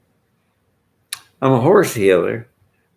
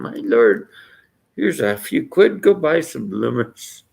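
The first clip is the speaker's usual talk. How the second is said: Englishman; 4 semitones higher than usual. Retold or imitated. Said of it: "That's the Englishman".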